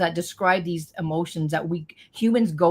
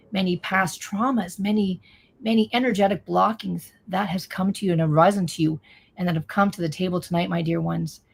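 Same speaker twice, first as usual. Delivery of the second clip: channeling voice. Acted. Channels the beings' message.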